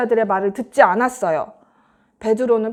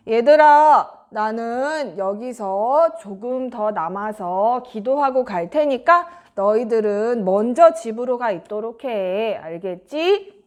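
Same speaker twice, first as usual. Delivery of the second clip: a slightly lowered teacher's voice; lightly voiced Jesus; 3 semitones lower, slower than usual. Jesus telling his disciples to go ahead, lightly lowered voice.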